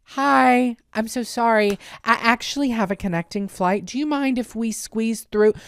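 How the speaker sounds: very kind. Retold or imitated. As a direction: ask sweetly to get past. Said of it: "I was very kind".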